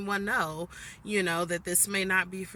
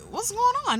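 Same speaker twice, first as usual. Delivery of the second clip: buddy's surprised question; 5 dB louder than usual. Retold or imitated. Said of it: "he was like".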